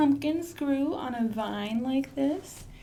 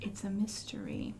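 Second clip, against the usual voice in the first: soft lower secretive whisper; 3 semitones lower, 6 dB quieter than usual. Acted. Librarian hinting the mystery to kids, lower whisper. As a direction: hush it like a secret.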